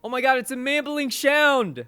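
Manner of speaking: high excited garbled cry. Real, not acted. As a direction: blurt it out tongue-tied and thrilled.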